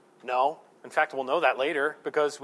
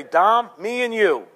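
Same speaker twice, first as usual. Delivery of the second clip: put-on drunk roommate; 2 semitones higher, 5 dB louder, slower than usual. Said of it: "he'd come home drunk".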